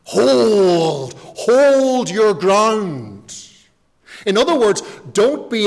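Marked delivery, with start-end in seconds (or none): 0.0-3.3 loud, drawn-out Scottish battle command; slow, booming Scottish order to hold; Scottish accent. Retold or imitated. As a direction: Wallace holding his men in a Scottish brogue. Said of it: "in his Scottish accent".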